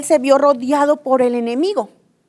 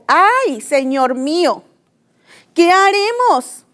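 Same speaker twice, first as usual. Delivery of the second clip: frightened cry; 3 semitones higher, slower than usual. Retold or imitated. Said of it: "Él tuvo miedo".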